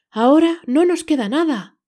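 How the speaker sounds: loud upset cry of a mother; shouting. A narrator's reading. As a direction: shout it in dismay. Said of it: "gritó".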